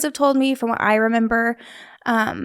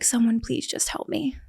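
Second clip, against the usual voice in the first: pleading softly; 5 dB quieter than usual. Retold or imitated. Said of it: "the look that I gave her was probably like".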